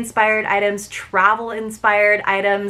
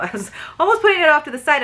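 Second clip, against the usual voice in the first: laughing; 7 semitones higher, much faster than usual. Real, not acted. Catches herself, laughs.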